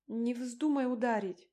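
high, loud plea; urgent, pleading cry; imploring. A narrator's reading. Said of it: "взмолилась я".

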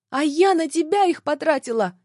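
indignant cry. A narrator's reading. Woman answers the man's reproach, crying out indignantly. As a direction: throw it back at him, pitch jumping up. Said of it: "вскрикнула я".

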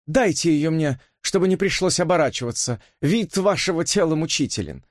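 a bored, teasing lady; Elisa's voice. Acted. (томная светская дама, голос выше)

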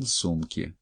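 ordinary delivery, nothing marked

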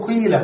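قيل with a long ee, qīla; waw turned to ya. Shown as a demonstration. Teacher repeating the rule, قيل with long ee. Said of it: "ثم تبدل الواو ياء فتقول".

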